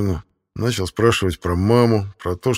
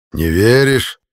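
loud, higher sneer; mocking jailer; 4 semitones higher, 6 dB louder, much slower than usual. A narrator's reading. Jailer mocks prisoner's doubt, loud sneer. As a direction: needle him.

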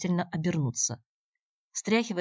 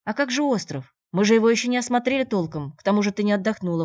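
higher, louder exclaiming protest, hurried at the end; 5 semitones higher, 7 dB louder than usual. A narrator's reading. Shevelyov exclaims, urging Natasha to stay. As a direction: urgently talk her out of leaving. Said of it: "воскликнул Шевелёв".

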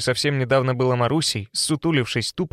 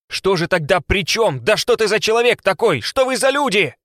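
louder and louder desperate shouting; 7 semitones higher, 4 dB louder than usual. A narrator's reading. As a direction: shout it out in despair. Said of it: "ещё громче и отчаянней прокричал он".

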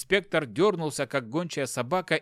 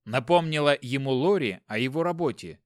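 ordinary delivery

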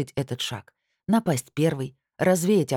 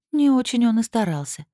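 насмешливо фыркнуть, выше; с пренебрежительным смешком в голосе; фыркая; 9 semitones higher, 4 dB louder than usual. Acted. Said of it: "фыркнула Лилит". (Лилит фыркает, высоко и насмешливо)

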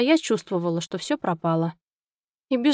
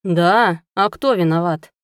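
low, much louder angry growl; 3 semitones lower, 5 dB louder, slower than usual. Acted. Husband turning his anger on his wife, loud low growl. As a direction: snarl the accusation back. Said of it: "прорычал Ричард".

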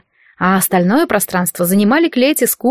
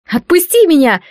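a high, loud shriek to be let go; 7 semitones higher, 4 dB louder than usual. Acted. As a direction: scream it as she pulls free. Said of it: "завизжала девушка". (визг вырывающейся девушки)

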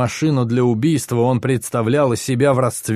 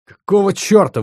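indignant outburst, higher and louder; what the hell, raised and outraged; 9 semitones higher, 5 dB louder than usual. A narrator's reading. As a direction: throw it out in outrage. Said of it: "возмутился Юрий".

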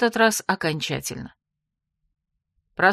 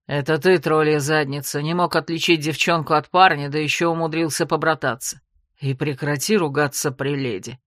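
snapping back; 5 semitones lower than usual. Acted. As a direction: lower male voice snapping back with irritation. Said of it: "огрызнулся собеседник".

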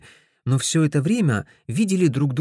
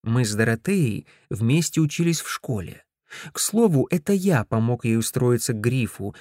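ordinary delivery, nothing marked

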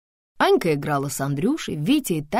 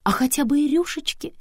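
high-pitched, bold comeback; bold retort; 11 semitones higher, 3 dB louder than usual. A narrator's reading. Antonina defending frills to her friend, boldly. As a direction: answer back boldly, voice raised high. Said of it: "смело заметила Антонина".

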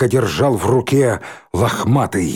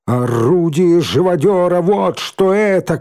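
higher, accusing shout; 7 semitones higher, 3 dB louder than usual. Acted. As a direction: hurl the accusation. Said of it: "крикнул Рыжий". (обвиняющий крик)

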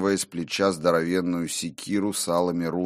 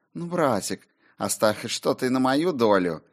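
purring; 6 semitones higher than usual. A narrator's reading. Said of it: "промурлыкала Солей".

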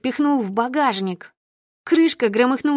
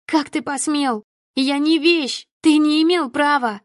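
higher and louder, rising outrage; louder, angry; 5 semitones higher, 3 dB louder than usual. Acted. Daughter turning on her father, getting louder. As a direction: rise from hurt to fury. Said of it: "и уже громче".

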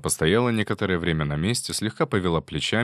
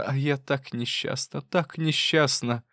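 slow, high, tearful lament; exclaimed lament; 5 semitones higher, slower than usual. Acted. Wife crying out her misery to husband, slow and tearful. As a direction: draw out your misery. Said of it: "воскликнула".

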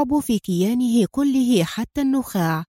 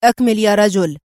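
firm, louder clipped command "أكمل"; sternly; 5 dB louder than usual. Acted. General ordering the driver to continue, stern. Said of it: "قائلًا في صرامة".

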